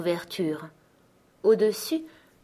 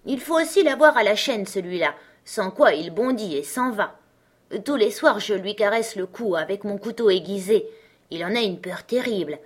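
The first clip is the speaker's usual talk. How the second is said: put-on robber girl; 2 semitones higher than usual. Robber girl inviting Gerda to bed, a hint of bossy. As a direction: play the wild robber girl, lightly.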